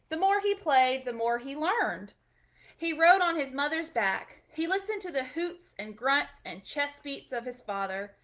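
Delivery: gentle storybook reading; storybook read-aloud, gentle and clear; reading to children. Acted. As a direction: read it like a bedtime picture book. Reading picture book aloud.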